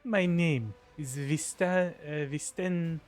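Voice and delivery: put-on measured, lightly Russian-accented formal welcome. Governor formally welcomes the new arrival, Russian accent. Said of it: "I have to make them Russian".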